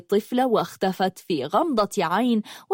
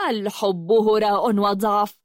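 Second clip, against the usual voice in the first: bitter fury. Acted. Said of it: "قالت بحنق شديد".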